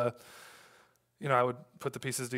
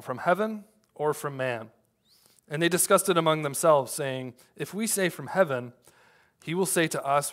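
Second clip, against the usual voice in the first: scripture reading. Acted. Reads the scripture passage aloud.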